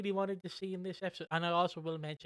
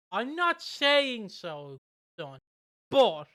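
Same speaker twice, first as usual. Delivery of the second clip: slow granddad aside; 3 semitones higher, 7 dB louder, much slower than usual. Retold or imitated. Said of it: "your granddad or granny".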